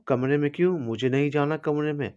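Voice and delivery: high, petulant tipsy refusal; tipsy whine. Acted. Drunk bride refusing to go to the room, whiny. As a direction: refuse like a sulky drunk child.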